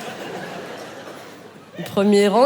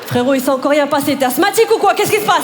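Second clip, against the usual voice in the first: mocking heckler voice. Mocking voice in her ear.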